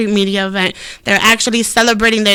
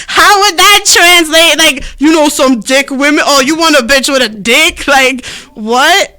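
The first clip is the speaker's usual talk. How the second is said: mock baffled; 3 semitones higher, 5 dB louder than usual. Mock baffled reply to friend.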